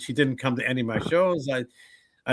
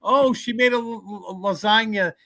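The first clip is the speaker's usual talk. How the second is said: high excited gushing over the food; mock Italian mourner, much higher; jolly Italian mourners; 10 semitones higher than usual. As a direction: gush like a happy Italian relative. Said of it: "Italian wake, they'll be like".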